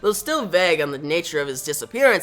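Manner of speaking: news reporter. Acted. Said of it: "sees this news reporter say".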